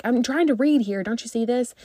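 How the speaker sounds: imitating her own annoyed inner voice; irritated. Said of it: "so irritated".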